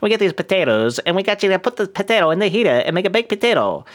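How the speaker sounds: gangster talking out the side of the mouth; out of mouth corner. Pretend. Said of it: "talking out the side of your mouth like you're some kind of gangster".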